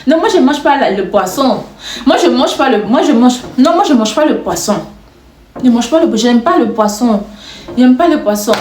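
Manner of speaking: imitated Congolese French accent. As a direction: put on a light Congolese accent. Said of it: "je fais l'accent congolais un peu".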